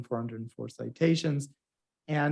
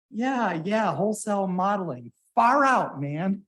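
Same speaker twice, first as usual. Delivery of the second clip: laid-back hippie; 6 semitones higher, 3 dB louder than usual. Retold or imitated. Steering committee's laid-back reaction.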